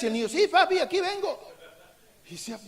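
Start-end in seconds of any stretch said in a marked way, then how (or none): 0.3-1.4 put-on higher, louder boy laughing as he answers; laughing child's answer.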